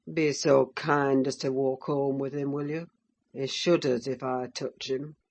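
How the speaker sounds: a lightly voiced cold sneering father; Heathcliff voice.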